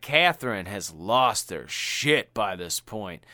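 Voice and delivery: usual speaking voice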